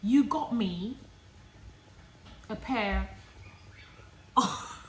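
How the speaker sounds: loud, high, exasperated ranting; boyfriend's rant. Retold or imitated. Boyfriend complaining she made such a fuss, loud and exasperated. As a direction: let the frustration pour out.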